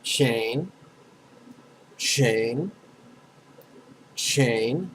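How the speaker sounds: "chain" drawn out, rising at the end each time; syllable demo. Shown as a demonstration. Teacher says a syllable for students to repeat, pronunciation demo. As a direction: say "chain" evenly, pausing for an echo. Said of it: "I'm gonna say a syllable".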